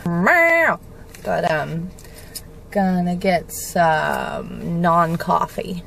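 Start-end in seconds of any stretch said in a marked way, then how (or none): 0.1-0.8 high, drawn-out meows; imitated crying cat. Imitating the cat being washed, wailing meows. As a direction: mimic a cat wailing in protest. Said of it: "'cause he cries".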